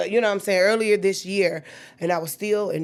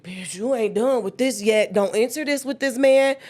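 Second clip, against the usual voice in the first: self-scolding; 3 semitones higher, 4 dB louder than usual. Retold or imitated. Scolding herself in her head.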